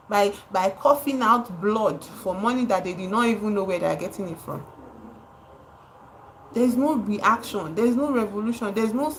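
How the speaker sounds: usual speaking voice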